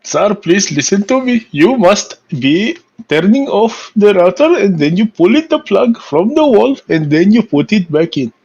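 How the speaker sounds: patient tech support script. Pretend. Mock tech support to host.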